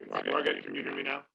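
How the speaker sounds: garbled, underwater-sounding audio; muffled like speaking underwater. Real, not acted. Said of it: "you sound like you're underwater".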